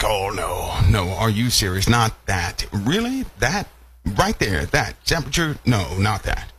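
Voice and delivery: stare in scornful disbelief, voice leaping up; hammed-up incredulity. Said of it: "looking at someone ... in disbelief".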